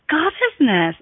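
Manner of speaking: usual speaking voice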